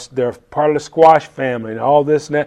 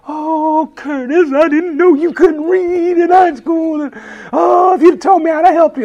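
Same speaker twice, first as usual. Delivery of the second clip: friend's voice put on much higher, from the heart; imitating Julie; 13 semitones higher than usual. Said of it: "Julie's like".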